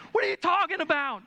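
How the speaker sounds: high, loud exasperated protest; baffled outburst. Retold or imitated. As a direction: react as the clueless husband, pitch up. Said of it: "I'm like".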